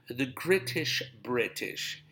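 "Gritish" with a hard G, then "British" said right. Shown as a demonstration. Poking fun at his own slip, "Gritish" then "British". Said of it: "I was about to say Gritish".

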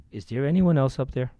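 man on the cliff calling up to heaven. Retold or imitated. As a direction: shout up to the sky for someone else. Punchline, man calls upward.

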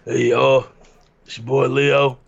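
light impression of a slow-talking friend, in the style of a well-known rapper; halting, lightly voiced rapper soundalike; Leo. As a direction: put on a bit of a rapper-style voice. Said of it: "Can you do Leo voice?".

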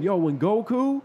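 high, slow, fired-up rant about anime; excited yelling. Retold or imitated. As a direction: hype it up like a superfan. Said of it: "he's yelling shit about Dragon Ball Z".

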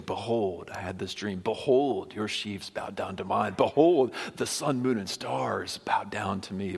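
mock-grand boast, each Behold proclaimed. Joseph bragging to his brothers about his dreams, boastful. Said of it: "But there he is boasting".

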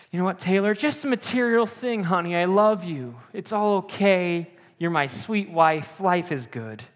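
sweetly forgive her, slowing at the end; loving reassurance. Retold or imitated. Husband reassuring his wife after she hit the house, tender and forgiving. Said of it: "looked back to the mercy of my brother Mark and said".

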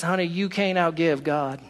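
put-on mama's saying in a light West Virginian accent; an inexact imitation of a West Virginian mother's accent. Mama to her child about giving to God, light West Virginian accent. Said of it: "I can't say it exactly with her accent".

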